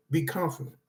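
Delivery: calm, dropped-down reassurance. Shown as a demonstration. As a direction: ease off and say Be confident gently. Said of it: "Don't be arrogant".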